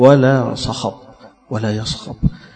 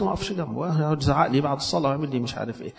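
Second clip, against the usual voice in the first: quick and much softer, a fearful grumble; nervous aside; 7 dB quieter, faster than usual. Retold or imitated. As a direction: worshipper muttering fast about the man who shouts after prayer. Worshipper fears standing beside him.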